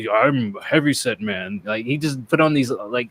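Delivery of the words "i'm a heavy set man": lightly voiced heavyset man; mock an audiobook narrator's deep character voice; imitated deep voice. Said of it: "he'd make his voice deep".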